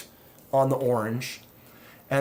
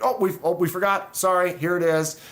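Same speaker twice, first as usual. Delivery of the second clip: mock apologetic company; 5 semitones higher than usual. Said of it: "it's like".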